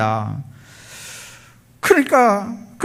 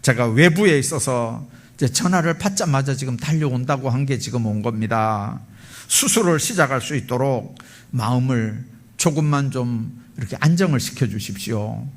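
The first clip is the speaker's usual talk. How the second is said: calm apology; 2 semitones lower than usual. Retold or imitated. Doctor soothing the child's upset father, calm apology. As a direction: gently ask for patience. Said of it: "미소를 지으면서 그럽니다".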